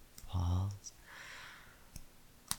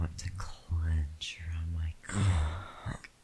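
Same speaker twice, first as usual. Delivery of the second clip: whispering. Acted. Intimate whispered roleplay.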